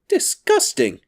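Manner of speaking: high, forceful outburst of disgust. A narrator's reading. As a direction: spit out the word with indignation. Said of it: "pronounced Missus Lambert".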